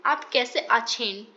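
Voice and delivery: आछेन said the Bengali way, as आछेन, slow and careful; Kolkata Hindi. Shown as a demonstration. Teacher showing students the Kolkata Hindi greeting, Bengali-flavoured and slow. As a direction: show the Kolkata Hindi version, Bengali आछेन in place of हैं. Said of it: "कलकत्ताई Hindi में इसको कहते हैं".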